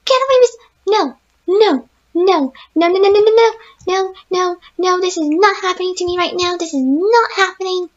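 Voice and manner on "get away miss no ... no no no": panicked screams. Real, not acted. Gamer chased by robots, terrified screaming. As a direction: scream them away in terror.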